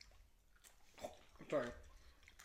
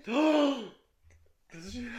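whisper; 3 semitones higher, 6 dB louder than usual. Real, not acted. Gasp then whispered question.

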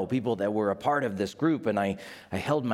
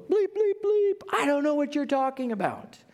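cursing denial; 13 semitones higher than usual. Acted. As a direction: spit out the curses as bleeps. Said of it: "fired off a slew of".

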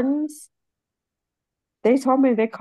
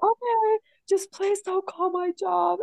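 higher, slow tearful begging; tearful plea; 9 semitones higher than usual. Retold or imitated. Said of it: "seriously crying".

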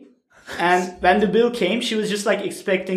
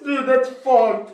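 laughing disbelief; 5 semitones higher, slower than usual. Real, not acted. Still laughing at joke.

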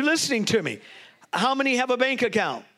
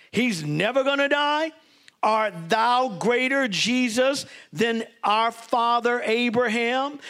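mocking challenge; slower than usual. Preacher voicing the Jews' challenge.

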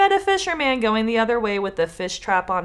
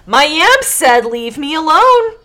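louder, higher hurried farmer; panicked farmer; 7 semitones higher, 11 dB louder than usual. Acted. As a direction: blurt it out in a panic. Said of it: "the farmer said".

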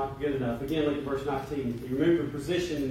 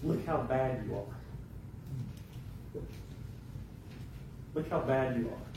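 retold devil's whisper; 7 dB quieter, much slower than usual. Devil planting doubt in the preacher's ear, soft slow whisper-like murmur. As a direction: murmur the doubt slowly, like a tempter. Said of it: "the devil now whispering in my ear".

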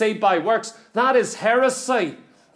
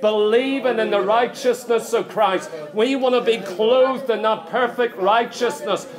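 closing prayer. Acted. Preacher leading the congregation in prayer, building fervour. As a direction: pray over the church with growing fervour.

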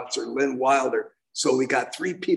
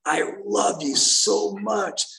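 high, slow imitation of a crying man; mock tearful plea; 6 semitones higher, slower than usual. Man begging dying Maude not to go, imitated crying. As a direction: lightly act out a heartbroken plea, voice pitched up. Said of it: "he's crying and says".

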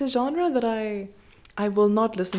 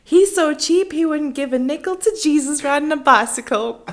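put-on over-the-top Southern accent, laughing; country western accent; 8 semitones higher, 9 dB louder than usual. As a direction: read a folksy insult in full twang. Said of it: "country western accent".

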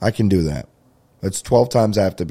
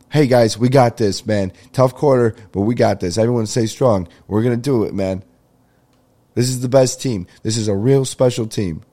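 louder, pumped-up team rallying; rallying the team before a tough quarter, louder and pumped; hype pep talk; 4 semitones higher, 4 dB louder than usual. Retold or imitated. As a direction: fire up the team like a hype chairman. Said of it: "as the hype chair".

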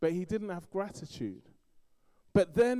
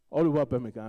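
Yoruba-accented name; 10 dB louder, much faster than usual. Shown as a demonstration. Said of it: "probably not saying it right with the Yoruba accent".

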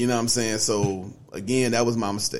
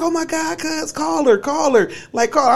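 imitating cousin; 13 semitones higher, 4 dB louder than usual. She sat there laughing.

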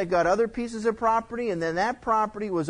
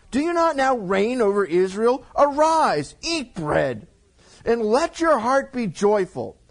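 Jezebel's scold; 4 semitones higher, 3 dB louder than usual. Acted. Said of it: "Jezebel, his wife, said to him".

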